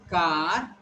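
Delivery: "car" with a drawn-out ah; long A. Shown as a demonstration. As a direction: stretch the vowel in "car". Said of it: "this is long A".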